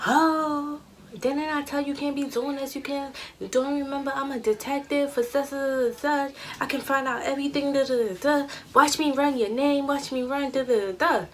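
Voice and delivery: mild mock boyfriend lecture. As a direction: imitate him puffing himself up as a cop. Boyfriend's angry lecture retold.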